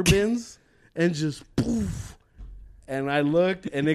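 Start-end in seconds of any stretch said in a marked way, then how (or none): 1.6-2.2 drawn-out puffed "boof"; imitated crash. Describing the car hitting water bins, imitated crash. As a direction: blow out a soft-edged impact noise.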